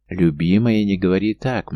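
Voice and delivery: raising his voice, pleading. Acted. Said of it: "Марк повысил голос". (повышенный голос)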